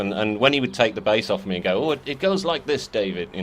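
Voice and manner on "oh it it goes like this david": put-on a light, half-hearted Turkish accent; lightly voiced Turkish musician. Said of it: "That was a terrible Turkish accent".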